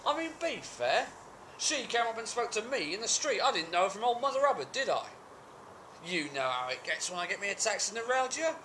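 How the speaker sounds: high, protesting self-defence; aggrieved excuse-making. Acted. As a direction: plead your case in a high, wheedling pitch. Character makes excuses to partner.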